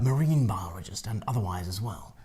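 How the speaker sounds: soft whispered narrator voice; David Attenborough. Pretend. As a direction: hush it like a documentary aside. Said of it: "as David Attenborough".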